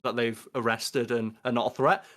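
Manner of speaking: sarcastic announcement with a punchy start. Pretend. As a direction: put on a sarcastic show of concern. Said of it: "I'm being sar-, like, saying that sarcastically".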